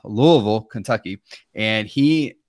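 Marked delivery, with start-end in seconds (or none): 0.0-0.6 Louisville mumbled as loo-uh-vul, mushy; marbles in mouth. Shown as a demonstration. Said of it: "like you have marbles in your mouth".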